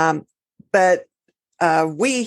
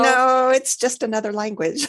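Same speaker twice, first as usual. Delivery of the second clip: playful mock protest; 6 semitones higher than usual. Playful reply to spooky impression.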